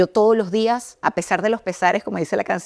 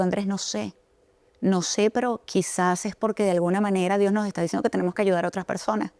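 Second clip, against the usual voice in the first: tearful reply; 4 dB quieter than usual. Retold or imitated. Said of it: "con lágrimas en los ojos le digo".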